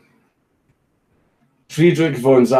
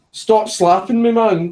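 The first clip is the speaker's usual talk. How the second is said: laughing protest; 10 semitones higher, 4 dB louder, slower than usual. Real, not acted. Dog slapping him.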